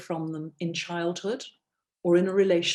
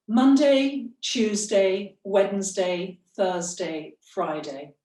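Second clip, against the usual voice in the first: fading on one breath; slower than usual. Shown as a demonstration. Coach shows class one breath to Friday, pitch sinking. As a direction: let the pitch drop as breath runs out. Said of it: "take a breath as far as Friday".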